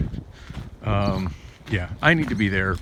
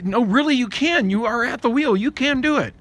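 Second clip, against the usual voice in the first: higher, a bit louder, insisting at the driver; retold argument; 12 semitones higher, 4 dB louder than usual. Retelling arguing with the driver to change lanes, higher and insistent. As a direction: push back hard at someone dithering. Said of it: "just arguing with her".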